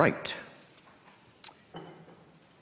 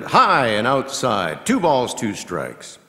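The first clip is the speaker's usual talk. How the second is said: louder burst that settles into the count; emphatic pitch call; 2 semitones higher, 5 dB louder, slower than usual. Real, not acted. Announcer calling a ball to listeners, emphatic. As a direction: punch the call, then ease off.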